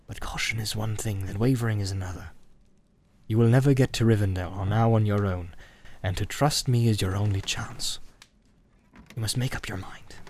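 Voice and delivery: lightly voiced ranger, measured and grave; Strider, grim and firm. Strider urges the hobbits to trust him, grim and firm.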